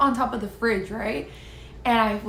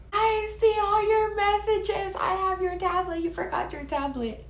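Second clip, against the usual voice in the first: confronting him; 10 semitones higher than usual. Retold or imitated. Confronting cheating boyfriend on phone.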